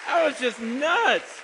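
slow, loud and high; thrilled. Real, not acted. Preacher telling the congregation how wild he felt, slow and loud. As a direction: stretch out your excitement. Reliving the big offer.

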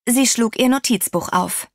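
plain reading voice

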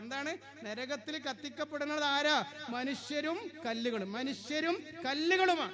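soft, sorrowful plea of a frightened stone; tearful stone. Acted. The stone tells the prophet why it weeps, softly grieving. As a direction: quietly voice the stone's grief. Weeping stone explains its fear.

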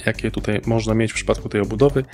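normal talking voice

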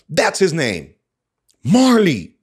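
exclaimed, rising high and loud on the name; strong intonation. Acted. John's excited line in the story, strong intonation. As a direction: land the name with an excited punch. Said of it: "strong intonation".

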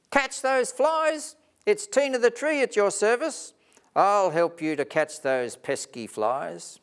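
high, loud, keen offer of help; eager helper. Acted. Tree eagerly offers help to Spider Steve. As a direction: jump at the chance to help.

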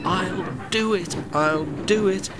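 high, strained, effortful gasp. A narrator's reading. Broken engine forcing himself to the station, high gasping. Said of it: "he gasped between the clanks".

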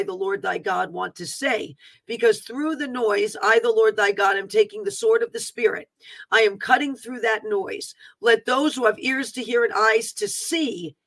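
solemn, measured summons to listeners; prophetic exhortation. Acted. Preacher calling Peters and Joshuas to humble themselves, exhorting. Reads prophetic call to humility.

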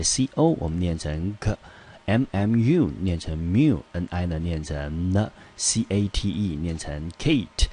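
slow, spelled-out syllables, each chunk read clearly; walk through each syllable slowly for students. Shown as a demonstration. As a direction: break the word into syllables slowly.

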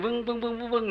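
string of droning pulses; imitated ear ringing. Monk shows the only sound the deaf hear, droning imitation. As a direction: hum out the noise in the ear. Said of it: "ได้ยินแต่เสียงอันนี้".

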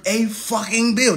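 "fucking" added with emphasis; emphatic swearing. Real, not acted. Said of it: "I like to add that as an emphasis".

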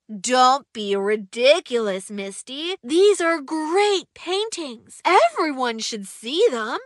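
put-on a boy insisting that his friend's paintings are great; excited. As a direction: insist eagerly. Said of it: "said Ollie excitedly".

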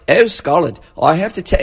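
mock British accent as Leslie Howard; lightly put-on British film-actor accent; British accent impression. Film critic mimics Leslie Howard in Gone with the Wind, mock British accent. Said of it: "with a British accent".

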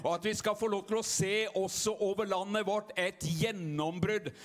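rousing revival preaching. Acted. Pastor stirring the congregation, rousing preaching. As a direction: preach it out to the whole tent.

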